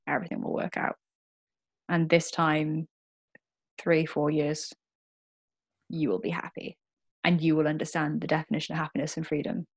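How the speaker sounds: soft, tender reassurance to her younger self; reassuring. Acted. Speaking to her scared younger self, softly reassuring. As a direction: gently promise her it will work out. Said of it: "I want to tell that very vulnerable, scared, anorexic girl".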